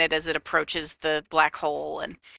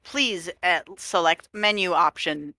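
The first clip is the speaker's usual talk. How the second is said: flat, even robotic voice; robot monotone. Retold or imitated. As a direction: read it like a menu robot.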